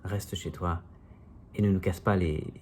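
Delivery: spoken-word poem in measured phrases; declaimed verse with lifted phrase ends; poem recitation. Acted. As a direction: recite a wry poem, line by line. Recites own comic poem.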